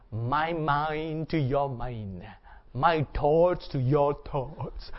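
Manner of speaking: slow, solemn Vulcan mind-meld line; a light Spock imitation, slow and solemn. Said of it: "he comes to you and say".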